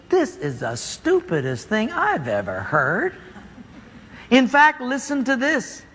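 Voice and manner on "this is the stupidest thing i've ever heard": slow, low inner grumble of scorn; Naaman's disgusted thought. Retold or imitated. Naaman scoffs at the prophet's order, slow low scorn. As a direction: mutter it to yourself, slowly, in contempt. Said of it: "Naaman thinks".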